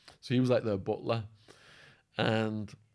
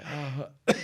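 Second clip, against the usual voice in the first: imitated "ha", voice failing; Wild Man; 5 semitones higher, 3 dB louder than usual. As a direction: attempt his cry with a tired voice. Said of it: "My voice is going, but it's like".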